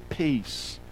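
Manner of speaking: soft hush. Acted. Describing absolute stillness.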